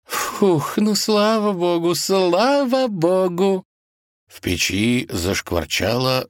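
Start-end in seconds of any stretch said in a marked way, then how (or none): 0.1-3.6 much higher, sighing relief, slow at the end; auntie's relieved blessing. Acted. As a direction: breathe out with relief. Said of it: "с облегчением".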